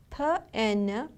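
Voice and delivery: "P N" as separate sounds, p, then en; sounded out. Shown as a demonstration. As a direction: break "pen" into its sounds, "P N". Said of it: "The first syllable is".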